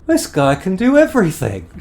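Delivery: high, loud astonished cry; amazed exclaim. Acted. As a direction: gasp it out in disbelief. Desmond amazed at Josephus.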